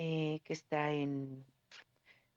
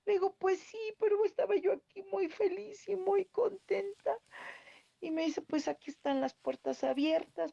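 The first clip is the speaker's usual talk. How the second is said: much higher, tearful voice breaking; crying while telling; 13 semitones higher than usual. Real, not acted. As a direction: talk through real tears, slowing on the sad lines. Retelling her goodbye, crying.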